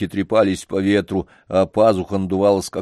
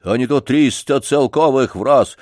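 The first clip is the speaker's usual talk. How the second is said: eager janitor; 5 semitones higher, 4 dB louder than usual. Acted. Janitor voiced in story.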